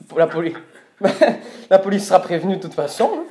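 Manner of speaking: mock threat broken by giggles; laughing through a threat. Real, not acted. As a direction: try to sound stern but keep laughing. Prank caller threatens police, laughing.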